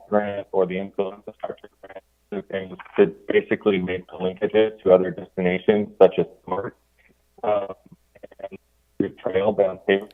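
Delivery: audio fading and cutting out; choppy, dropping connection; uneven volume. Real, not acted. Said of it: "your audio is cutting out once again".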